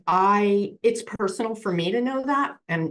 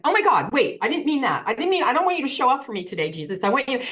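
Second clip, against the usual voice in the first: higher, hurried panicked take-back; flustered backpedal; 4 semitones higher, much faster than usual. Retold or imitated. To Jesus after a bad wish, a hurried flustered take-back. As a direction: scramble to take it back fast.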